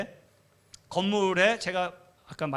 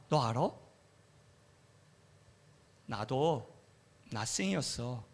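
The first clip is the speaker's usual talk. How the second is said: God's gentle voice. Retold or imitated. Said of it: "하나님이 그러시는 거예요".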